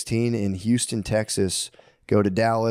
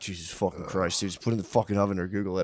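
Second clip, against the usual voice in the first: softer, fast exasperated grumble; exasperated inner rant; 5 semitones lower, 5 dB quieter than usual. Retold or imitated. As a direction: rattle it off under your breath, fed up. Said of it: "I'm like".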